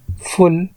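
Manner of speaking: फुल as one separate syllable; syllable demo. Shown as a demonstration. Teacher counting syllables for learners, फुल said on its own. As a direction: say फुल alone, the last beat of beautiful. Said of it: "तीसरा syllable हो गया".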